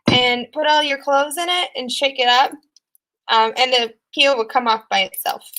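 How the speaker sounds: talking while chewing gum. Real, not acted. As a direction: gum in the mouth. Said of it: "sounds like I have gum in my mouth".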